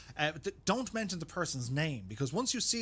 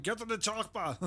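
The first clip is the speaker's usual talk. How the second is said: Arnold Schwarzenegger; 6 semitones higher than usual. Retold or imitated. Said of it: "Arnold Schwarzenegger".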